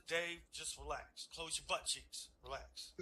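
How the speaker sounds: soft slow mock-calm friend; calm reassurance. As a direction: settle him down quietly.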